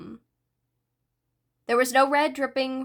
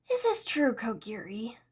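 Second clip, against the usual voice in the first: questioning; 5 dB quieter than usual. Acted. Shigaraki demanding answer.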